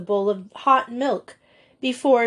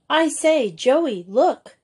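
higher-pitched excited call for attention; raised, eager schoolgirl exclamation; 5 semitones higher, 4 dB louder, slower than usual. Acted. Girl calls friend to look.

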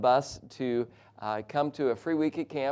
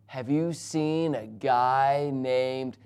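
slow, drawn-out stranger at normal volume; strange talker; much slower than usual. Retold or imitated. Stranger approaching the car window at night, talking a little strange. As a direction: stretch it out oddly, like a strange man. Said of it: "he talked a little strange".

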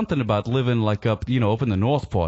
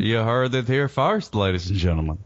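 mock announcer. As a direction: present it like a playful game-show host. Mock announcer reveal to audience.

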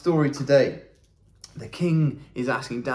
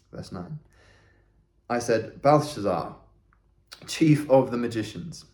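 scripture reading; 2 semitones lower than usual. A narrator's reading. Reads scripture aloud.

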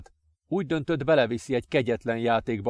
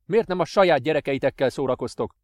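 loud, bitter accusation; bitter father; 3 semitones higher, 6 dB louder than usual. Acted. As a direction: throw it in his face. Father lashes out.

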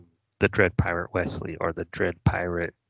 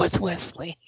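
high-pitched imitation of a startled heroine; mock sudden realization; 10 semitones higher than usual. Retelling her realizing it is Wesley, mock high surprise. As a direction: squeal it up high in mock recognition.

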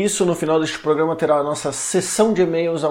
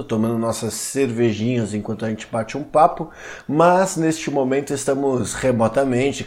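announcer style. Acted. Host formal podcast address.

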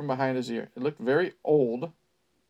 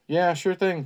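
sarcastic brush-off; mocking; 4 semitones higher, 4 dB louder than usual. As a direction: say it like you don't buy a word. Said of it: "with a mocking tone".

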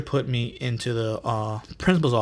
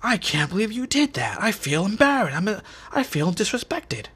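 whiny principal; 9 semitones higher than usual. Retold or imitated. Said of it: "he's like".

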